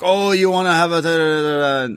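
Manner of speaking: bad, high, laid-on put-on Scottish accent. Retelling a wrestler mocking rivals: imitating a scottish accent. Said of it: "starts doing the, the, like, Scottish accent".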